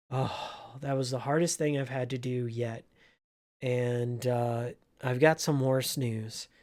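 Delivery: hushed confession to a coworker; hushed manager. Retold or imitated. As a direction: tell it quietly, worn out. Manager's hushed aside after firing.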